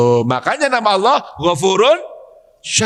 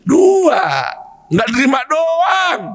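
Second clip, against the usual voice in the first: emphatic shout; 7 semitones higher, slower than usual. Real, not acted. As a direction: snap the answer out. Answers his own question emphatically. (jawaban keras dan tegas)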